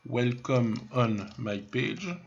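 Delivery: slow English with a French accent, "on my page". Real, not acted. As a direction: read "Welcome on my page" slowly in a French accent. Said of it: "Interdit de se moquer de mon accent".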